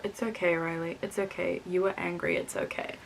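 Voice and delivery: retold soothing whisper; soft whisper. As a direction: hush them gently, barely voiced at the end. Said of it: "I shake my head and whisper".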